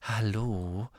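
soft, gentle greeting; polite hello. A narrator's reading. Luna greeting Professor Trelawney, polite. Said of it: "sagte Luna höflich".

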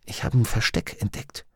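secret whisper. A narrator's reading. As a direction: whisper it so nobody hears. Secret shared at the table.

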